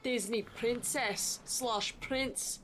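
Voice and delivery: loud, put-on Scottish accent; bad Scottish accent. YouTuber welcoming viewers to the channel, bad Scottish accent. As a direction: greet viewers in a badly faked Scottish brogue. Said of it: "talking in a shitty Scottish accent".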